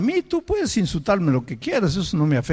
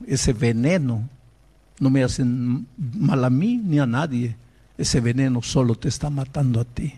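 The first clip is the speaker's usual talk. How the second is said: measured echo of a rebuke, pitch lowered; subdued recalled rebuke; 4 semitones lower than usual. Retold or imitated. Quoting the pastor's rebuke back, subdued.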